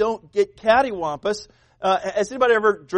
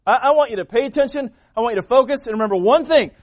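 louder, higher voice of God addressing the listener; God speaking; 5 semitones higher, 6 dB louder than usual. Acted. Preacher voicing God to the congregation, raised and urgent. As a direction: speak as God urging his people. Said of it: "God says".

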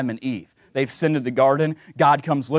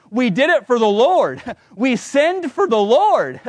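higher, louder, hammed-up excuse with a laugh; mock self-justifying; 7 semitones higher, 4 dB louder than usual. Preacher mocking Saul's excuse to the prophet. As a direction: mimic Saul's lame excuse, slowing on "We sinned for the Lord". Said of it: "that didn't sound right".

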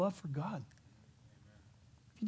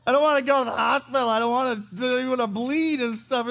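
hammed-up whiny fear, much higher and louder; mock panic; 8 semitones higher, 9 dB louder than usual. Father mock-panicking over son's stunt, high loud whine. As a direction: whine like you're scared of the hospital. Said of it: "I was like".

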